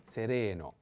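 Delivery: seREno with a long RE; stress on second E. Shown as a demonstration. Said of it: "put the accent on the second E".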